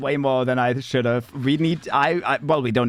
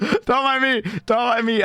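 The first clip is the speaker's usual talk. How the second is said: high alien squeak with a cry-like laugh; 11 semitones higher than usual. Pretend. Streamer briefly goes alien on stream, high squeaky voice. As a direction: go briefly alien, much higher. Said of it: "I went alien for a second".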